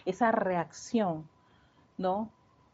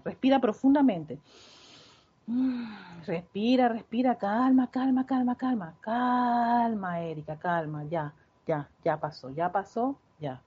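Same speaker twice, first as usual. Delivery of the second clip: guiando la respiración; 2 semitones higher than usual. Shown as a demonstration. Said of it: "guía para calmarse".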